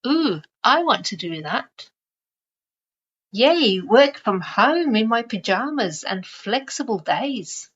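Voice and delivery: lightly imitated eager fans, swooping pitch; playful sing-song enthusiasm; mock excitement. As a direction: gush a little, as if envying someone's life. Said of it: "People get excited".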